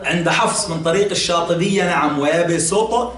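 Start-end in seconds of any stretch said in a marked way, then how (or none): 2.2-3.1 "ويبسط" recited with sin, not emphatic sad; pronounced with sin. Shown as a demonstration. Teacher confirms the Shatibiyya reading, "ويبسط" with sin. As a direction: say "ويبسط" with a light s, the letter س. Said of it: "بالسين قولا واحدا".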